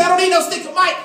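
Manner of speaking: brash mock yell at the crowd; mock shout. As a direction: play the cocky pro hollering. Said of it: "other overzealous pros say".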